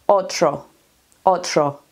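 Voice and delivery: otro, TR blended as in Mexico; Mexican-style TR in otro. Shown as a demonstration. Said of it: "se escucha en México cuando es una T R".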